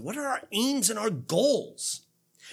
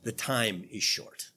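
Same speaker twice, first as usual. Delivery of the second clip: solemn apostle; 10 semitones lower than usual. Acted. Paul's solemn apostolic pronouncement.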